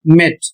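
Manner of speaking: "मेट" with E said as a short ए; short e pronunciation. Shown as a demonstration. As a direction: model "मेट" with a short eh vowel. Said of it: "इसका उच्चारण होगा".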